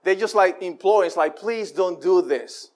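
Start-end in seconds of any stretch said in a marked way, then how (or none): 1.4-2.7 slow, soft imploring; slow pleading. Acted. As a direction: beg them gently, word by word. Moses and Aaron imploring the people.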